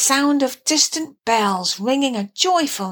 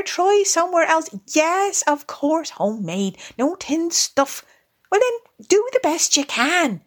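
lightly voiced bossy Rat, rattling off orders; masterful Rat; 4 semitones higher than usual. Rat instructs field mouse on shopping, lightly masterful. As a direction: order the shopping in snatches, pitch lifting.

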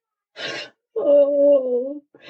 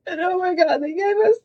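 higher, tearful happy voice; real tearful joy; 5 semitones higher than usual. Real, not acted. Host announcing the big news to listeners, tearfully overjoyed. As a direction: welcome listeners on the verge of happy tears. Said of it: "we're gonna cry for a while".

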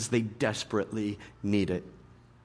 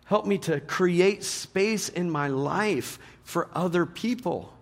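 prayerful plea; 5 semitones higher, slower than usual. Retold or imitated. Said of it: "We say".

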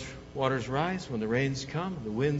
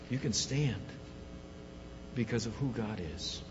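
soft closing reflection; 2 semitones lower, 4 dB quieter than usual. Acted. Pastor quietly closing the sermon, softly reassuring. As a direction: bring it down, gentle and intimate.

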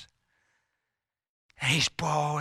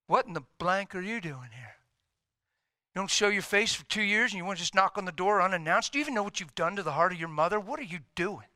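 mild, rushed scolding; indignant parent; 4 semitones higher, faster than usual. Acted. Hurt parent confronts son at the door, acted indignant scolding. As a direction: scold in a fast, rising rant.

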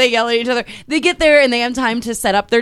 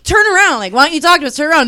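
raised, insistent call; mock demand; 4 semitones higher, much faster than usual. Housemates yelling at New York to turn around. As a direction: order her to turn around.

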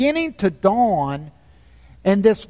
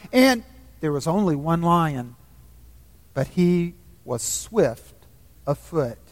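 lower, quiet lion's voice; calm lion voice; 3 semitones lower, 4 dB quieter than usual. A narrator's reading. The voice corrects Shasta, low and calm. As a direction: speak low and steady as the great lion.

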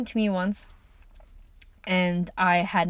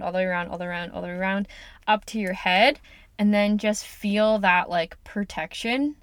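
guided visualization. Acted. Host guiding listeners to picture protective light, soothing. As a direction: lead the listener gently through the image.

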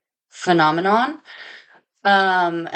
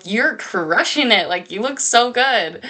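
retold gushing praise, pitch swooping up; gushing compliment; 4 semitones higher than usual. Telling the woman next to her after yoga class, gushing. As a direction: gush admiringly, as if recounting it to listeners.

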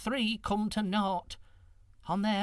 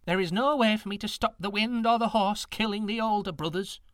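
soothing; 6 semitones higher, 4 dB louder than usual. A narrator's reading. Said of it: "said soothingly to the girl".

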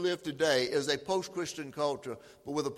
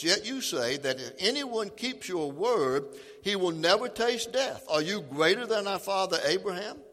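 a touch of indignant Jewish leaders, louder; mild accusing crowd; 3 semitones higher, 3 dB louder than usual. Acted. Jewish leaders accusing Jesus, mildly heated. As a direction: challenge him with rising outrage. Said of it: "the Jews exclaimed".

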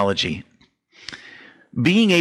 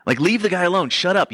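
higher, scolding shut up; mock hush; 7 semitones higher than usual. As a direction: crowd telling the blind beggar to hush, sharply. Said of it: "they tell him, they're like".

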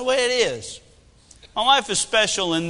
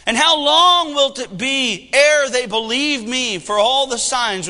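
the Lord angry; 3 dB louder than usual. Acted. The Lord rebuking the people to Moses, stern. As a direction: thunder it like an angry God. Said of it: "that's pretty tough language".

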